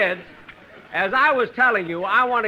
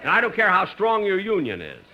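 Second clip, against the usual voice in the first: lost temper; 5 semitones higher than usual. Acted. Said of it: "I'm sorry I lost my temper".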